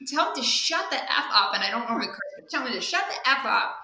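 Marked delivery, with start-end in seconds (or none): 0.1-1.5 high, loud retold yell; mock screaming. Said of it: "screaming at the voice". 2.5-3.8 retold yell. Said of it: "screaming at the voice".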